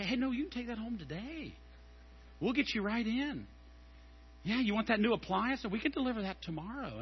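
lightly voiced pushy salesman, soft and quick; a hint of a smooth sales pitch; mock salesman. Salesman pushing same-day delivery on a customer, light mock pitch.

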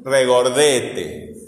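"regordete" very slow, DE stretched; stress on DE. Shown as a demonstration. Teacher testing the student's ear, slow stressed "regordete". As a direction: draw out the DE in "regordete". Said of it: "Escucha el sonido".

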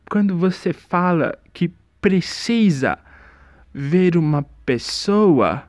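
slow, drawn-out put-on voice; mock dreamy explanation. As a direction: stretch it like a spaced-out guy. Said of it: "a explicação dele é exatamente essa". (imitando devagar, voz arrastada)

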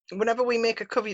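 talking with a mouth full. Real, not acted. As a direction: speak through a mouthful of sandwich. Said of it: "sorry, I've now got sandwich in my mouth".

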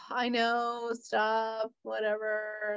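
soft, unbothered mumble; resigned brush-off. Retold or imitated. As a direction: wave it away quietly, used to it. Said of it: "he's used to my, my harassment. He's just like".

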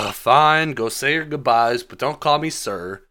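mock exasperated wizard conceding; exasperated giving in. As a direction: give in with a huff. Doctor Strange voiced after a sigh.

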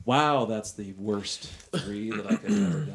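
high, loud groan at a terrible roll; dismayed. Real, not acted. Player groaning at her bad dice roll, high dismayed. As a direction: wail at your own awful luck.

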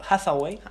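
"Hathaway" said slowly and carefully in an English way, ending on a rise; careful English pronunciation. Shown as a demonstration. Host taking care to get an actress's name right, careful English pronunciation. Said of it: "este nombre también lo quiero pronunciar bien".

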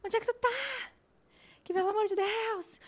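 high, agitated mock boyfriend voice; imitating ex-boyfriend. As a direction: pitch it way up as the nagging ex. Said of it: "Meu ex-namorado me liga". (imitando o ex-namorado, voz bem aguda)

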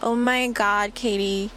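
put-on bubbly Valley Girl gushing, slow and drawn out on the last line; lightly voiced valley girl gossiping about Brett. Podcaster playing a Valley Girl friend, a light mock Valley Girl gush. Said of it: "I can hang with the Valley Girl".

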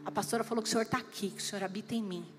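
low, soft, trusting murmur; calm prayer. Acted. Pastor models prayer to the Holy Spirit, calm and trusting.

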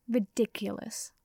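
slow, dismissive scoff. Acted. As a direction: brush the idea off with slow scorn. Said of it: "Malfoy scoffed".

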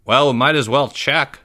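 a hint of casual teenager; teenage voice. A narrator's reading. Game truck employee deciding to check, teenage voice. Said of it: "said the teenage voice".

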